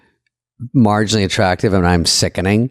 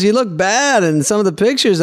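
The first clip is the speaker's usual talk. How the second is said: put-on German accent; 11 semitones higher than usual. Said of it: "Is this your German accent?".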